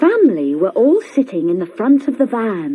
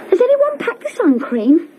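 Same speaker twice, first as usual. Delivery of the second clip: put-on much higher girl's call; 12 semitones higher, faster than usual. A narrator's reading. Girl calling to her family from the shop, high and bright. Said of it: "she called".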